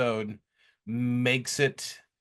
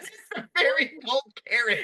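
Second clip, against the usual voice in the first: mock deadpan line; 11 semitones higher, faster than usual. Quoting the show's punchline.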